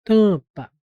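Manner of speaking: TAMPA as a held nasal "tã", then "pa"; vogal nasal demonstrada. Shown as a demonstration. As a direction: split TAMPA into a long "tã" and a short "pa". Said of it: "é como se eu falasse assim". (TAMPA dito "tã-pa", com a nasal alongada)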